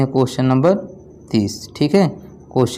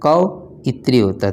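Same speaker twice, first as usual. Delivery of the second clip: कवित्री said slowly and clearly, each syllable apart; slow down on कवित्री so students catch it; slow clear correction; slower than usual. Shown as a demonstration. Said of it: "ठीक है".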